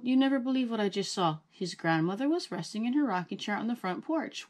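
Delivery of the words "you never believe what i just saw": put-on excited boy. Excited boy bursting with news.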